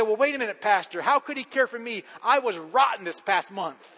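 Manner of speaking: lightly voiced doubting listener; a hint of a worried churchgoer pushing back; objecting congregant. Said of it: "And you say".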